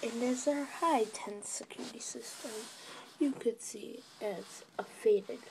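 hushed whisper throughout. Real, not acted. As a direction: whisper like a secret tour. Whispered tour of the yard.

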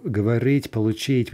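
говорить and получить stressed on the last syllable; end stress. Shown as a demonstration. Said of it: "infinitive with in stress".

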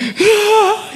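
sharp, high imitated gasp. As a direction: gasp like someone struck by the truth. Auntie stunned by the word.

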